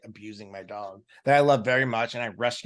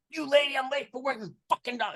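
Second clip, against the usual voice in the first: much higher, mock-frantic snap back; exasperated retort; 13 semitones higher than usual. Owner snapping at the neighbor while late for work, exasperated. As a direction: brush the nosy neighbor off in a hurry. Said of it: "And I'm like".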